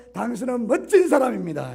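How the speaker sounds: sincere, warm compliment to a neighbour; 진심을 담아 따뜻하게; heartfelt greeting. Shown as a demonstration. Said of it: "정말 내 진심을 담아서".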